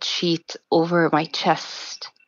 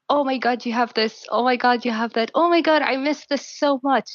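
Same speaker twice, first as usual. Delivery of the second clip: higher, mildly excited mimicry; imitated amazement; 5 semitones higher than usual. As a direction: marvel at each little thing, as if imitating. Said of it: "every single detail went on like that".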